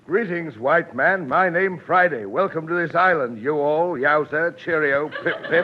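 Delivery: pidgin mixed with cheerio British; lightly put-on islander voice; a hint of hammed-up native chief; mock native dialect. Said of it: "what kind of dialect is that".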